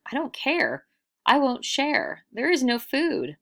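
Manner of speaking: high, loud, grumpy refusal; grumpy villagers refusing. Acted. Villagers refusing hungry travelers, high grumpy refusal. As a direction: snap it back like a stingy villager.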